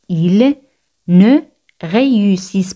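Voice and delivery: "Ils ... ne ... réussissent pas l'examen", first words separated; word-by-word demonstration. Shown as a demonstration. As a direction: pause after "Ils" and after "ne". Repeat broken up at the start.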